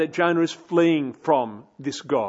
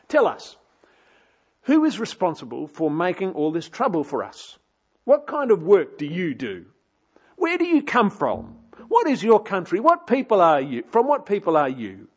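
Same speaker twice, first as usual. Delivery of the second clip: interrogating sailors; 3 semitones higher than usual. Retold or imitated. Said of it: "They ply him for answers".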